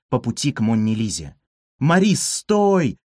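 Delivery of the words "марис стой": slow, high call to stop; shout. A narrator's reading. Narrator to Maris, shouting stop. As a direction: yell at the mouse to freeze. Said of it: "крикнул я".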